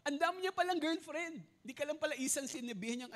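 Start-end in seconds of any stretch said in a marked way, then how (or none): 0.0-1.5 laughing while telling it. Real, not acted. Preacher laughing about a suitor's many girlfriends, laughing. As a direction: laugh through the line.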